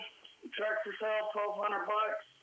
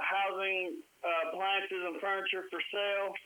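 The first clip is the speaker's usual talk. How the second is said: phone held away. Real, not acted. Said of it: "You're so far away from the phone".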